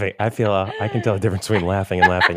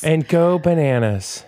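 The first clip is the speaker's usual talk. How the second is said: slow, higher mock Georgian accent; 7 semitones higher, slower than usual. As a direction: savor the caller's Georgian lilt slowly. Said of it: "and what a Georgian".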